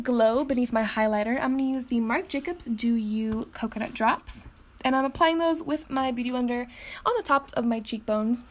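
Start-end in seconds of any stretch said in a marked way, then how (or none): 4.8-8.4 slightly winded, breathy words; out of breath. Real, not acted. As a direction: talk while a bit out of breath. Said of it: "I just got out of breath".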